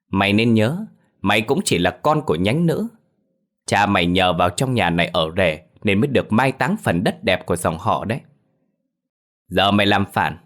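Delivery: lightly voiced domineering patriarch, condescending; arrogant clan head. Clan head banishing Phiên's family, lightly haughty.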